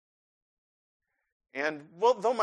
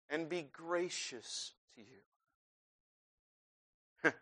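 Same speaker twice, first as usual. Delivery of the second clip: hushed blessing; 6 dB quieter, slower than usual. Acted. Benediction fading.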